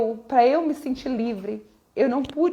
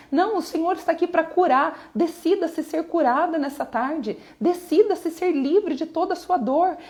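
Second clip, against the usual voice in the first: preaching at full force; 3 semitones higher than usual. Real, not acted. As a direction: press the congregation hard. Pregação em live. (pregação inflamada e alta)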